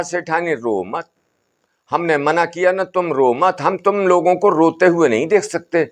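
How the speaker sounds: a hint of an old sadhu calming the family; Baba's voice. बाबा सेठानी को. (बाबा की हल्की ऊँची, समझाती आवाज़)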